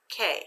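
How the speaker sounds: K said alone, short, without stress; unaccented syllable. Shown as a demonstration. Teacher sounds out first syllable for students, K unaccented. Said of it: "say the first syllable without the accent".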